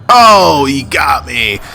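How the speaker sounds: a startled, loud high "oh" that drops back down; sudden surprised yelp. Real, not acted. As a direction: caught off guard, it just bursts out. Getting hit in the game.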